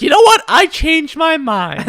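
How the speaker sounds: spring it on him, then drag it out; mock sudden shout. Customer cancelling the sodas at the till, mock shout. Customer reverses order mid-checkout.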